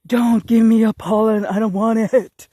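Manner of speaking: loud, exasperated pretend protest; mock yell. Pleading with flowers to keep their pollen, mock yell.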